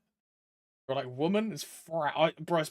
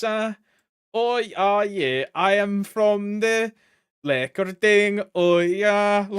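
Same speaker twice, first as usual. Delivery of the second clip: loud, hammed-up generic European accent, meant as German; mock German accent; 5 semitones higher, 8 dB louder, slower than usual. Shown as a demonstration. Streamer showing how every accent sounds in their head, mock German accent. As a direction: drag out a bad German accent, loudly. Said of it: "what is a German accent though".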